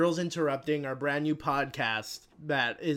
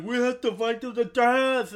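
mock movie challenge; 8 semitones higher, 7 dB louder than usual. Retelling a movie fight scene.

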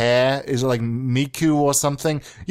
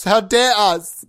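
louder, higher mock outrage; hammed-up indignant repeat; mock indignation; 6 semitones higher, 5 dB louder, slower than usual. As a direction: draw it out in pretend affront.

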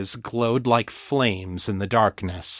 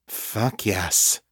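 growled. Acted. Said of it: "Kate growled".

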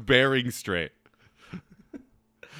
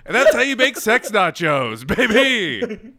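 lightly hammed-up seducer, pitched higher; mock sleazy come-on; 4 semitones higher, 3 dB louder than usual. Friend mimics the texter's crude sex nachos come-on, mock sleazy. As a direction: play a jokey, over-eager dirty talker.

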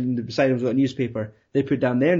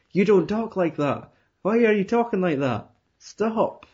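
higher-pitched mock disbelief; acted protest; 7 semitones higher than usual. Viewer protesting at an actor's American accent, incredulous. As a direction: object in a pitched-up, baffled voice.

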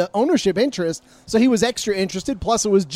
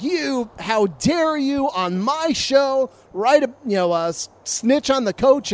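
imitating angry rant; 5 semitones higher than usual. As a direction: play the furious host, dragging out the words. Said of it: "he's just freaking out".

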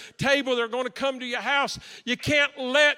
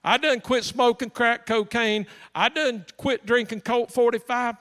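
Vanessa's voice; 5 dB louder than usual. Retold or imitated. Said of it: "she said".

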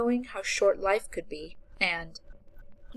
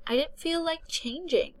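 lightly voiced Becca; 9 semitones higher than usual. A narrator's reading. Becca voiced in narrated story.

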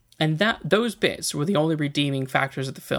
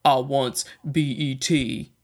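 flat mock Killer Croc; slower than usual. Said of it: "He's like".

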